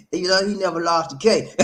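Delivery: amused, words touched with laughter; laughing. Real, not acted. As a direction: talk through a chuckle. Laughing while joking about a viewer.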